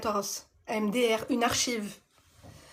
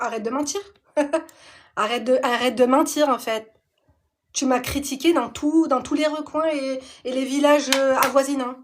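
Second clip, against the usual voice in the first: louder, exasperated retort to a liar; mock telling-off; 4 dB louder than usual. Retelling how she snapped at the old friend, louder and exasperated. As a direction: scold her like you're fed up.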